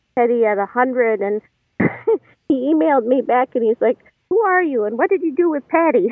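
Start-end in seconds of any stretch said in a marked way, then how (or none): 4.3-6.1 higher-pitched playful astonishment, retold; mock disbelief. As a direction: quote it as a teasing, amazed question. Retold email, mock disbelief at change.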